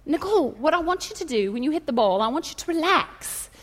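soft, lightly Scottish coaching voice; mild mock-Scottish instructions. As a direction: coach gently with a hint of Scottish. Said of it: "he's Scottish, and his voice is kind of like this".

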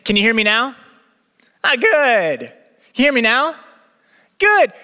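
lightly voiced phone tester checking signal; Test Man impression. Pastor imitates the ad's phone tester, lightly acted. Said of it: "was walking across the country saying".

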